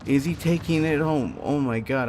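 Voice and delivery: real hyped commentary on a live play; sports announcer. Real, not acted. Spectator asking if he'll take this home, sports-announcer hype. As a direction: call it like an excited sports announcer. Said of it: "I sound like a stupid sports announcer".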